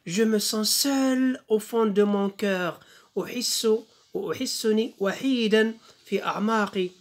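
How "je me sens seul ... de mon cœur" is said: slow, sustained French verse; poem recitation. Shown as a demonstration. Teacher reads the poem to pupils, slow poem recitation. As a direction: hold the vowels and recite slowly. Reading poem aloud in lesson.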